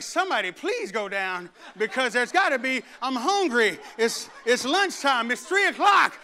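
whining that builds into a shout; hungry kid begging someone to go down; impatient hungry kid. Retold or imitated. Restless churchgoer at a long service, whining up to a shout. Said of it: "I'm like".

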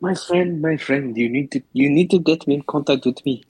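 sudden Russian-sounding accent. Real, not acted. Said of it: "Why did you sound all Russian all of a sudden?".

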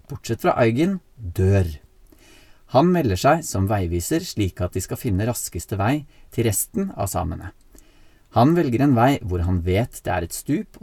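measured story-summary reading with deliberate pauses; recap read-out. Real, not acted. Host reads his six-sentence film recap to co-host, read-out summary style. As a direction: read out a prepared film synopsis, clause by clause.

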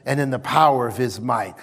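calm confession. Shown as a demonstration. Preacher modelling confident confession, low and steady. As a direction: speak it calmly, sure of victory. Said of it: "You begin to say".

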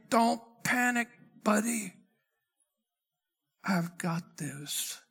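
calm reassurance. Acted. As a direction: settle a worried friend gently. God reassures anxious Habakkuk.

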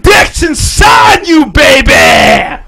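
crude taunt. Acted. Mock-seductive taunt, slowed, shouted.

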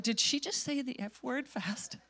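hushed, mock-scandalized question; scandalized churchgoer. Churchgoer reacting to talk of fasting, hushed mock shock. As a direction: murmur it softly in mock disbelief. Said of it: "half of you left the church".

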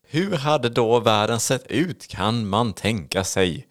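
very slow, deliberate presenter delivery; theatrical question. Pretend. Host poses the what-if to co-host, theatrically slow. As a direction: pose it like a grand riddle, word by word.

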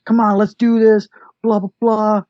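high, mock tough challenge; lightly voiced guy daring someone to fight; playful imitation of a man picking a fight; calling out the dude. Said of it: "he's trying to call out the dude".

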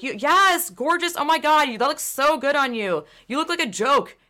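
high, hammed-up gushing compliments; mock gushing flattery. Mock-flattering a friend's look, in hammed-up high gushing. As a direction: gush over them in a fake sweet high voice. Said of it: "be like".

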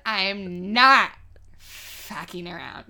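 slow, deadpan tough-guy warning; mock tough voice. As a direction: play it like a mock threat, drawn out and dead serious. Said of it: "Your whole face just changed with that voice".

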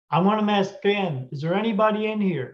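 lightly acted call to an unseen presence. Investigator calls out to spirit again.

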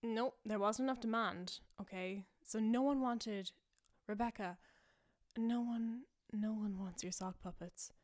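usual speaking voice

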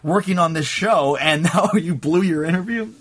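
a mock-exasperated mom nagging; mom mad at me. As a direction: son blows an interview, mom scolds him, half-laughing mock anger.

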